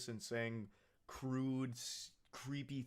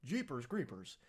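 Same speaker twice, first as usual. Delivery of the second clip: mock startled priest. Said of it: "Gabriele's like".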